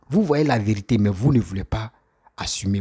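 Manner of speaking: ordinary talk, nothing marked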